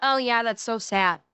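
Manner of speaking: dismissive mock condolence; mock offhand sympathy. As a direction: drop the pitch and mimic someone who barely cares. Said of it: "in this tone of voice".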